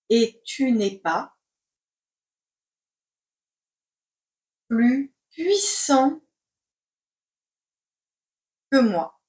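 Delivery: slow, chunked with long pauses; slow dictation. Shown as a demonstration. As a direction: dictate word by word. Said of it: "C'est parti pour la dictée".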